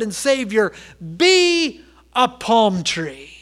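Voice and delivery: slow, weighty sermon exhortation; drawn-out, forceful pulpit charge; emphatic preaching. Acted. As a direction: preach it, leaning hard on each opening word.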